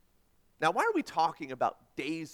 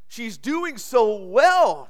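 slow, louder, higher reassurance; reassuring; 5 semitones higher, 8 dB louder, much slower than usual. A narrator's reading. Nurse reassuring the anxious pacing man, slow and warm. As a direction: soothe him slowly and kindly. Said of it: "she assured him".

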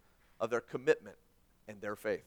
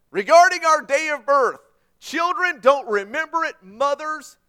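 emphatic preaching; 9 semitones higher, 10 dB louder than usual. Real, not acted.

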